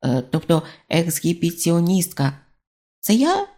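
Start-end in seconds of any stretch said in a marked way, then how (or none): 3.0-3.5 much higher squeaky voice; robber's voice jumping an octave. A narrator's reading. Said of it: "голосок став на октаву вищий".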